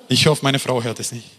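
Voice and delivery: chuckling through the line; laughing aside. Real, not acted. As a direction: let a laugh carry the joke. Joke about his wife.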